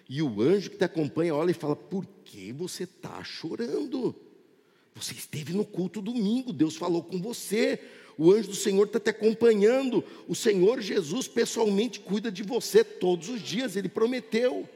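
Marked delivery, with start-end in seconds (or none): 1.7-4.1 very soft, slow angel's question; tender near-murmur, drawn out; gentle question. Retold or imitated. Angel gently questions crying believer. 4.9-14.7 gentle reassurance. Retold or imitated. Angel reassures the crying believer.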